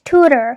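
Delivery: "tutor" as TOO-ter; first-syllable stress. Shown as a demonstration. Teacher models the word, "tutor" stressed on TOO. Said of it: "the stress is on the first syllable".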